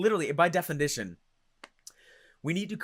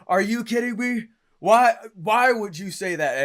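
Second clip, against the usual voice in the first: mock hostile; 5 semitones higher, 6 dB louder than usual. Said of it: "And then I'd get hostile".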